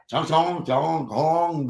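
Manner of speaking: slowed fake Chinese babble; slow mock gibberish. Restaurant worker greeting customer, slow mock gibberish. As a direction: drag out the nonsense syllables. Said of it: "you put it in Chinese".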